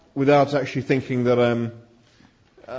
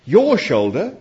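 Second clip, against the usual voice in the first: mildly horrified, higher-pitched query; horrified, hushed question; 6 semitones higher, 3 dB louder, slower than usual. A narrator's reading. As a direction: ask with a touch of horror, voice rising. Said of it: "in a horrified whisper".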